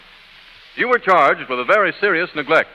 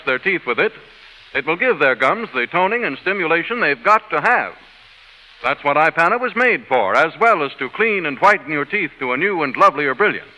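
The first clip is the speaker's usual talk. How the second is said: ad read. Acted. Toothpaste ad pitch inside sketch.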